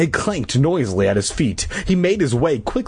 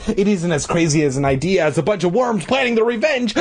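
shouting; 6 semitones higher than usual. Acted. Todd insisting, shout heard.

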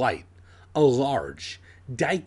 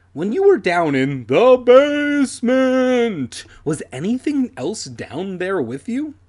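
put-on nervous child voice; 9 semitones higher, 7 dB louder than usual. Nervous kid asks dad.

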